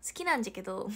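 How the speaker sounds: a forced Hiroshima dialect line, "じゃけど" instead of "だけど". Shown as a demonstration. Streamer self-consciously shows off Hiroshima dialect, forced Hiroshima accent. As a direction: put on Hiroshima dialect a bit too deliberately. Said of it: "わざとらしすぎ".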